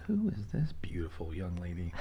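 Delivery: soft unvoiced whisper. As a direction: whisper it like a secret. Retold thought, whispered.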